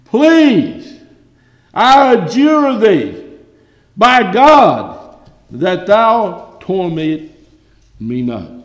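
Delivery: high, loud desperate pleading; crying demon. Acted. Preacher voicing the demons begging Jesus, loud and high. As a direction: beg like a cornered demon. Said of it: "And they cried".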